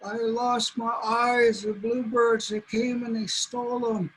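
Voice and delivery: pleading coyote. Acted. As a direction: cry out to the buffalo for help. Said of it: "And he says".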